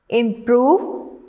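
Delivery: "improve" with the weight on PROVE; stress on second syllable. Shown as a demonstration. Teacher reading words to students, "improve" stressed on PROVE. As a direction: say "improve" as im-PROVE, rising at the end. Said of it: "stress on the second syllable".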